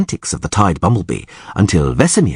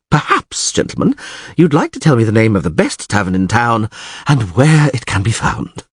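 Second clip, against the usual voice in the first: bard addressing gentlemen. Acted. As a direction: ask with a performer's airy politeness.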